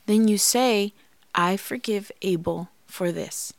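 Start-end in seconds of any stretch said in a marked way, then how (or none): 1.3-3.5 soft, slow, earnest; sincere forgiveness vow. Shown as a demonstration. Wife showing listeners the words, soft and slow. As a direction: say it softly like a private vow. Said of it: "You have to say it out loud".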